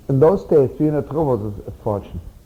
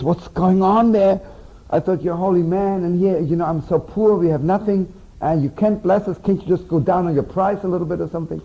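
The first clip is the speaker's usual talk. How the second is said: retold crying plea; 5 semitones higher than usual. Wife pleads with the holy man, half-crying and high. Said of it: "starts yelling and crying".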